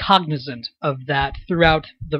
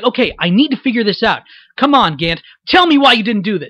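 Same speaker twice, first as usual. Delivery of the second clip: high, loud, energy pushed face-forward; urgent straight man pressing for answers, pitched right up; Phoenix Wright; 6 semitones higher, 7 dB louder than usual. Shown as a demonstration. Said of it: "it was really up, up here".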